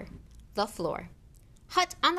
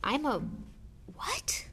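astonished gasp; 7 semitones higher, slower than usual. A narrator's reading. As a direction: gasp the question in disbelief. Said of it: "gasped Harry".

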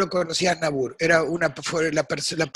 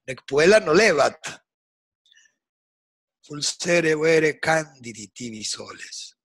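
reciting Latin poem. Shown as a demonstration. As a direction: intone the Latin verse deliberately. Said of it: "el poema es Cátulo ocho".

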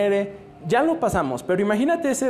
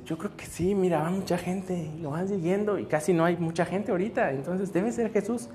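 softer, conspiring leper voice; hushed leper talk; 6 dB quieter than usual. Acted. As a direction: murmur it like a nervous leper. Leprosos hablan en voz baja. (leproso hablando bajito con su compañero)

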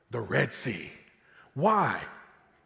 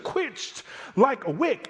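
"quenched like a wick" pitched high and slowed, stretched out with a lift on "wick"; triumphant and high; 7 semitones higher, slower than usual. Shown as a demonstration. Preacher voicing God boasting over the chariots, high and slow.

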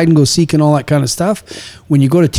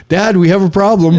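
put-on higher-pitched kid announcing a problem; imitated little son; 5 semitones higher than usual. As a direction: imitate a small boy calling on his dad. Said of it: "he comes up".

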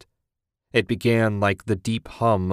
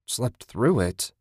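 muttered; 2 semitones higher, slower than usual. Acted. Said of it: "Ted muttered".

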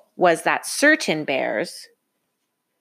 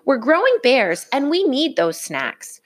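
protesting cubs; 7 semitones higher than usual. Acted. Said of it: "they protested".

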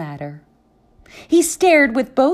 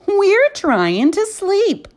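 slow, higher, grumpy whine; annoyed sleepy complaint; 10 semitones higher, 3 dB louder, slower than usual. Acted. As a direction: drag it out like tired grumpy books. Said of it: "said the others".

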